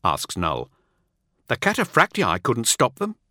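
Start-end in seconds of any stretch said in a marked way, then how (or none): 1.5-3.2 high, startled protest; a surprised, defensive reply. Acted. Teth surprised at Null's question. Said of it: "says Teth in surprise".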